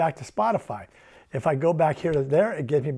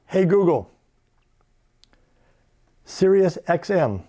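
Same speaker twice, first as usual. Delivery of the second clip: voice command. Shown as a demonstration. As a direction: pronounce it for the mic. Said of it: "if I say".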